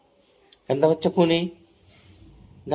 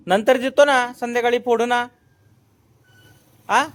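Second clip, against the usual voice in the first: placating; 6 semitones higher, 4 dB louder than usual. Real, not acted. Dad putting off a toddler who wants it now, placating.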